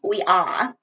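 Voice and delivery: badly faked East Coast accent; Jersey accent. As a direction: put on a rough Jersey girl accent. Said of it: "I'm gonna talk like a Jersey".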